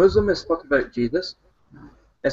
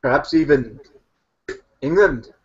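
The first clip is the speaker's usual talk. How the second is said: demonstrating a Pakistani accent; 4 dB louder than usual. Shown as a demonstration. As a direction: show how Pakistanis talk, in a Pakistani accent. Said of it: "they often talk like this".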